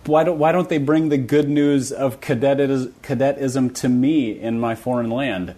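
a hint of French-Canadian accent, slowed down; light French-Canadian accent. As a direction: plead for cadetism in a mild French-Canadian lilt. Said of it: "He said that with a light French accent".

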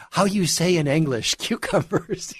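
a lighter mock of a fake Spanish accent; laughing through a fake Spanish accent. Quoting the celebrity again with a mock Spanish accent. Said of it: "when you listen to her on the Today Show".

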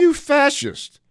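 high, loud mock accusation; mock outrage. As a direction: shout it in fake outrage. Joking outburst at caller.

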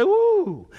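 a high squeal of an ox sizing up its prey; mock ox grunt. Preacher voicing the mischievous ox, high playful ooh. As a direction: voice the ox's sly, sudden "ooh" up high. Ox turns on careless servant.

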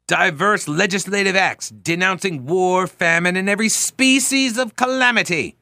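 put-on high, declaimed Old English oratory; Old English dialect. Radio host slips into reading the resolves aloud, Old English dialect. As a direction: slip into a grand Old English proclamation voice. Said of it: "I slip into it".

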